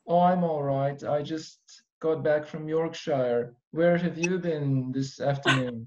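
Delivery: slow, posh British small talk; British accent. Pretend. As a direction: play an unhurried English gentleman. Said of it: "I will do my British".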